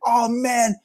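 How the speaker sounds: high, delighted thank-you in a borrowed voice; a singer, touched by a fan's compliment, answers in a high delighted voice; imitating a singer. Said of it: "He's like".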